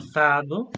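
"Empezado" with the Z said as English TH in thunder; lisped Castilian Z in "Empezado"; tongue between the teeth for the Z of "Empezado". Shown as a demonstration. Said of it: "the Z again is like T H".

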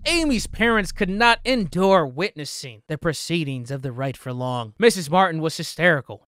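emphatic read-aloud of an account; story narration. Acted. Witness recounting Amy's exorcism, narrated with emphasis. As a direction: read it out like a dramatic report.

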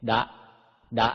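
short voiced "ดะ"; voiced Pali d. Shown as a demonstration. Teacher demonstrates Pali letters to readers, voiced "ดะ". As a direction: say "ดะ" with a Thai d, cut short. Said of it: "ออกเสียงดอชดาเป็น".

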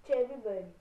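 talking through stuffed cheeks; cheeks stuffed full. Real, not acted. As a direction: mouth full of marshmallows. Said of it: "vai botar na sua boca e vai falar Chubby Bunny".

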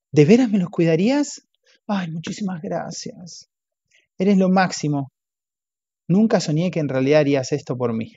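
lightly voiced gushing friend; grateful gushing. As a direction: gush with fake gratitude. Acting out Daniel's grateful words.

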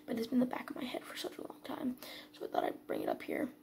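trailing off into a whisper. Real, not acted. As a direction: hush it under your breath. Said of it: "I'm kinda whispering".

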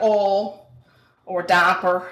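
"oil" and "diaper" in the speaker's own regional way; own regional pronunciation. Shown as a demonstration. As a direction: say "oil" and "diaper" as you would at home, needing subtitles. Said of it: "people probably need subtitles with us sometimes".

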